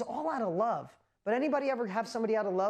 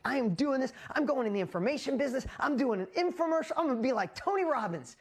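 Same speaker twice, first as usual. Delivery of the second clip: pumped-up self-talk; 5 semitones higher than usual. Retold or imitated. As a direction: announce the big plan like it's already done. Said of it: "I'm like".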